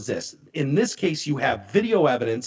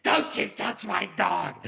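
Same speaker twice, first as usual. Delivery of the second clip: mock warning; 4 semitones higher than usual. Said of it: "she's like".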